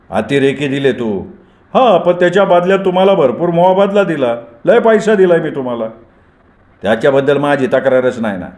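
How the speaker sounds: a smug criminal boss laying out his price; menacing gang boss. Acted. Gani demanding ten young men from Sambhajirao, smug and menacing.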